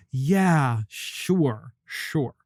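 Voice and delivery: trailing sarcastic agreement. Real, not acted. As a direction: brush it off with scorn. Sarcastic dismissal after mock quote.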